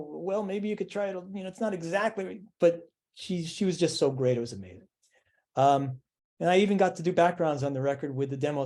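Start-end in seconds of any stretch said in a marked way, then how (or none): 0.1-2.4 1 hesitant mock correction. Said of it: "all I could say was".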